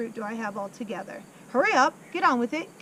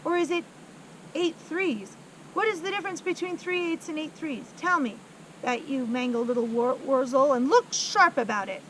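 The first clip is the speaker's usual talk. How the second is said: berating headmistress; 3 semitones higher, 4 dB louder than usual. Acted. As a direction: scold the boy mercilessly.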